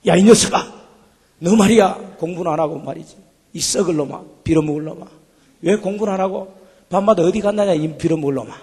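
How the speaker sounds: imitating a scolding mother, loud at first; a mock scolding that softens toward the end; retelling mom's tirade in a mild mock yell. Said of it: "야단을 치기 시작했습니다".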